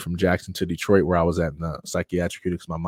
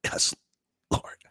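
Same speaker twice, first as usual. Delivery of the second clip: muttered yes; 6 dB quieter than usual. Retold or imitated. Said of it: "to mutter out a".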